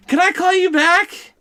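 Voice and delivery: high, slow mom voice; high-pitched mock phone voice; flustered mother. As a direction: imitate a thrown mother, drawing it out high. Mother ends the prank call.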